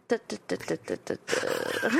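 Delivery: quick run of staccato da-da-das, trailing low; stalling vocal filler. Real, not acted. Speaker covering for a word that won't come, stalling da-das. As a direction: stutter out da-da-das, dropping away.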